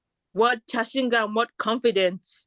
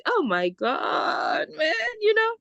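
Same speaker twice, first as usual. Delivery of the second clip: laughing shout; 12 semitones higher, much slower than usual. Real, not acted. Laughing at the memory.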